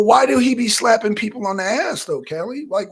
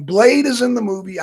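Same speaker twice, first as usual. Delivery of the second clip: louder emphatic reveal; teasing announcement; 3 semitones higher, 6 dB louder than usual. Acted. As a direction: announce the spoiler loudly. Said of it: "hate to spoil it".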